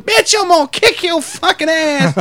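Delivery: high, drawn-out mock yell; retold screaming threat. Drunk man threatening a woman by phone, mock scream. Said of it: "he's screaming at her".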